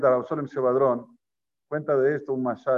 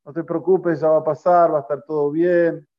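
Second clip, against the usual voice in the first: mild retold shout, a little louder; called-out reassurance; 4 dB louder than usual. Old woman reassuring the rabbi from a distance, mildly called out. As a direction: call out comfort as if from afar. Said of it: "y le gritaba a Rav Sholem".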